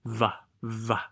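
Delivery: "va" with the lip held on the teeth; separate, clearly buzzed v in "va"; bitten v. Shown as a demonstration. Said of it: "感觉到那个嘴唇被咬住一点".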